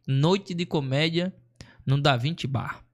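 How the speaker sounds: "Noite de comédia" slow and drawn out like a poster announcement; announcer read. Retold or imitated. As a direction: present "Noite de comédia" as a show title, slow. Recalling the event's advertising.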